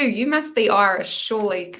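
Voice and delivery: half-hearted Irish lilt done for fun; bad Irish accent. Reader jokes to Michelle in a badly faked Irish accent. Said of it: "that was not a good Irish accent".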